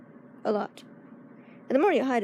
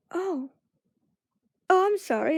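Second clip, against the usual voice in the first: flustered apology; 6 semitones higher, slower than usual. Retold or imitated.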